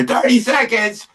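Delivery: high, slow, dramatic countdown call; stage manager countdown. Retold or imitated. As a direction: mimic a stage manager building tension. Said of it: "and then I hear".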